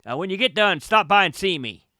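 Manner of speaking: a hint of a chatty local, apologetic then inviting; fussing over manners, then slyly inviting; lightly voiced Boston guy. GM as the Boston man inviting the player over, lightly voiced. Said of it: "he looks down and goes".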